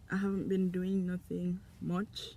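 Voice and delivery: talking around gum; words through a mouthful of gum; chewing gum. Real, not acted. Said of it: "Sorry, I have gum in my mouth".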